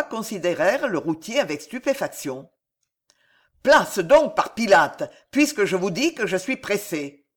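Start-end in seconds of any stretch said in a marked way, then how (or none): 3.6-7.2 a loud, angry burst that settles into a hard growl; growled order. Acted. Pardéant to the diners blocking his way, growling angrily. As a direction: shove the words at them like a fist. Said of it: "qu'il grondait ces mots".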